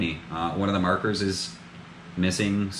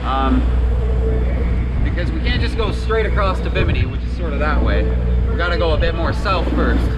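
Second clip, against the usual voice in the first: raised voice over the wind; shouting over wind; 9 semitones higher, 9 dB louder than usual. Real, not acted. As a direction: talk loud over the roaring wind. Talking over wind at sea.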